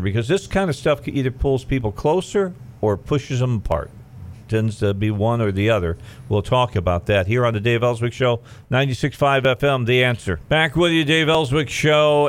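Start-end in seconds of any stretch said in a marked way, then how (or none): 6.3-12.3 higher-pitched on-air station announcement; radio host ident. Real, not acted. Host telling listeners the show and station, radio announcer delivery.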